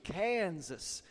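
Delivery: "Kansas" drawn out as a pronunciation demo; drawled Kansas. Shown as a demonstration. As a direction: hold the first vowel of "Kansas" long. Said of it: "That's the pronunciation".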